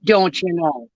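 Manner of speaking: a touch of northern Minnesota accent; Minnesotan accent. Shown as a demonstration. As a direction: say it with a light Minnesota lilt. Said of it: "I get teased because I'm from northern Minnesota".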